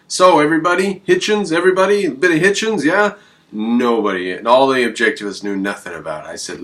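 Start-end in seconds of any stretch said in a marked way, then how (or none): 0.1-3.1 high, loud, eager crowd-rousing call; pitched-up pep call to the crowd; rallying call. Retold or imitated. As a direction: whip up the room for Hitchens.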